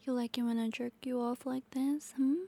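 quick, breathless tease in a whisper; fast intimate whisper; fast teasing whisper. Acted. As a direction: rush the tease under your breath.

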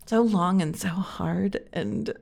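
slow, laughing through the words; breaking into helpless giggles; hysterical laughter. Real, not acted. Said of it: "I'm, like, hysterical".

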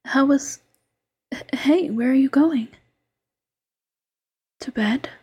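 intimate ASMR whisper, close to the mic. Acted. Fox girlfriend coaxing her tired partner to eat, whispering. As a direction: coax him gently in a hush.

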